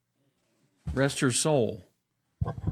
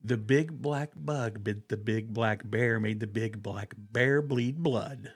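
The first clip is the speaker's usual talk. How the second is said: demo to repeat; 5 dB quieter than usual. Shown as a demonstration. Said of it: "Try it with me".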